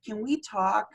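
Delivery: small, high-pitched squeak of a nice bouncer; squeaky voice. Retold or imitated. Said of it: "that little high-pitched squeaky voice".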